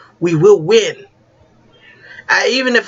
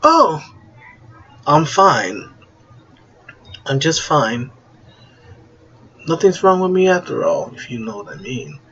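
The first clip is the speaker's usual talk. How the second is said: butler voice. Acted. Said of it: "You sound like a butler".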